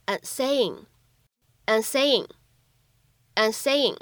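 "and saying" linked, the d in "and" held unreleased; incomplete plosion. Shown as a demonstration. Teacher models linking for learners, "and saying" with an unreleased d. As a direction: run "and saying" together without releasing the d. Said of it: "可以有一个不完全爆破的处理".

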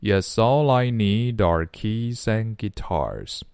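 "yes, all I" slowly run together; slow, joined-up "yes, all I need are keys and guitars"; linked speech. Shown as a demonstration. Teacher shows students linking, slow and joined from "yes" to "guitars". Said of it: "如果你这里连不起来的话".

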